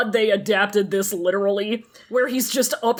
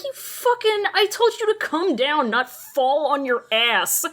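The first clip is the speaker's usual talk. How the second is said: exasperated scolding; 4 semitones higher than usual. Retold or imitated. Wei Wuxian scolding, voiced.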